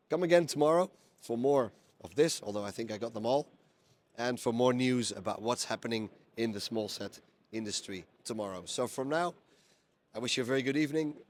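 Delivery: rough, worn-out hoarse voice. Real, not acted. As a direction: voice going hoarse after a long day. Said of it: "I'm kind of lost my voice".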